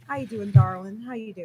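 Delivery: lightly put-on Southern sweet talk; Southern accent. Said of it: "like, in a southern accent".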